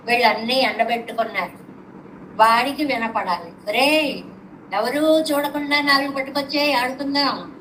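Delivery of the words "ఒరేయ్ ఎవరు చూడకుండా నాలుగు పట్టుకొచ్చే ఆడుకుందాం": put-on calling to a deaf boy. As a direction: call out so the deaf boy hears. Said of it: "ఇంత అరుపు అరిస్తే".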